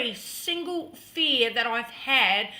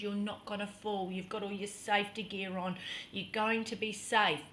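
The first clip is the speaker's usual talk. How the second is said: lower, softer, calming voice; reassuring; 4 semitones lower, 9 dB quieter than usual. Retold or imitated. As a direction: settle a frightened partner gently. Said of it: "Over and over reassuring me".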